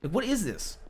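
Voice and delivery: exasperated protest. Real, not acted. Asking Andy for a chance to talk, exasperated protest. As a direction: protest being told to stop.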